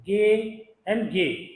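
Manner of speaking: गे stretched very slowly, hard g and long e; slow ge demo. Shown as a demonstration. Shorthand teacher showing students the ge sound, very slowly. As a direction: draw out गे slowly for the class, twice. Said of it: "तो ये dark होता है".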